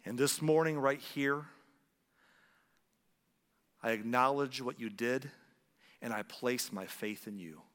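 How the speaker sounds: measured prayer in short phrases with pauses; slow led prayer. Shown as a demonstration. Preacher leading the congregation in a prayer of faith, slow and measured. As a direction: pray it unhurried, pausing for others to follow. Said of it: "I'll say 'em slowly".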